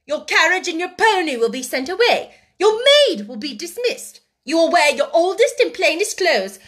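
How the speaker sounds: high, loud, emphatic decree; severe scolding. A narrator's reading. Headmistress strips the pupil of privileges, severely. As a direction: hammer out each new rule. Headmistress lays down new rules.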